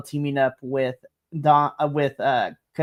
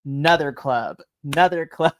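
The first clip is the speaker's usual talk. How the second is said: a pop star meme; slower than usual. Retold or imitated. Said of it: "meme of ...".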